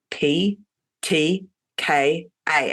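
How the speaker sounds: "P T K A" spelled out in a New Zealand accent; Kiwi accent. Real, not acted. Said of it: "say that in not a Kiwi accent".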